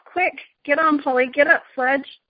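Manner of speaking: read-aloud urgent call; mild urgent shout. Acted. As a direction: urge them on with a half-voiced shout. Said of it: "was shouting out".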